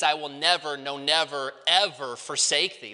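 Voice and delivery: each "never" and "ever" set apart and stressed; emphatic negation. Shown as a demonstration. Preacher explaining the Greek double negative, emphatic negation. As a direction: lean on "never", then on "ever". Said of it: "And the idea is".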